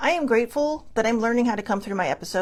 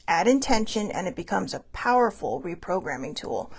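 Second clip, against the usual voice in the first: measured self-help tip read; wellness read. Acted. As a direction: read it like a calm affirmation card.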